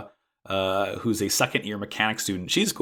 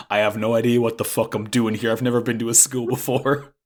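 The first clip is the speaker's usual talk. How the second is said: nervous, rushed confession; flustered stammer. Retold or imitated. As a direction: blurt it out awkwardly. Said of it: "stammering and stuttering and being like".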